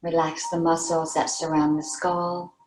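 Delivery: unhurried meditation guide, pausing between phrases; guided meditation. Real, not acted. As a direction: lead them gently into relaxation, leaving long pauses. Leads a meditation.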